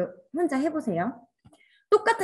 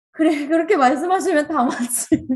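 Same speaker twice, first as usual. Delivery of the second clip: louder, high, brushing-off "sure, you're right"; mock dismissive agreement; 6 semitones higher, 6 dB louder than usual. Teacher mocking careless readers: loud high brushing-off agreement. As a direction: wave it away with a loud, high shrug of a voice. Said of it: "대부분 이렇게 하잖아요".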